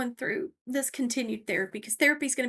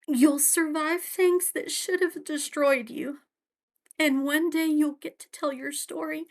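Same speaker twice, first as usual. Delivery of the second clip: crying while reading; 5 semitones higher than usual. Real, not acted. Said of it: "sorry, I'm crying and I can't read".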